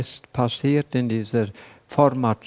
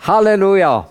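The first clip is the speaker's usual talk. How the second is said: jubelnd; 7 semitones higher, 7 dB louder, faster than usual. Real, not acted. Jubel am Ende der Predigt.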